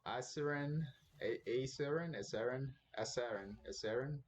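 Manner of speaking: trying out "Aseren" several ways, first vowel shifting from ah to ay to uh; hesitant repeated attempts at saying "Aseren"; unsure pronunciation. Real, not acted. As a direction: sound out "Aseren" as an unfamiliar name, varying the first vowel. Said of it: "I don't know how to pronounce his name".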